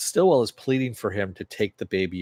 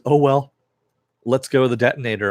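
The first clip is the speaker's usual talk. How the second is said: mock defiant retort; 3 semitones higher, 6 dB louder, faster than usual. Billy's defiant retort, retold.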